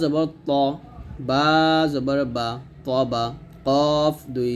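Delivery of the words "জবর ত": ত said short, never stretched to তা; ত, not তা. Shown as a demonstration. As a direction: clip ত short, no long vowel. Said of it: "তা বলা যাবে না".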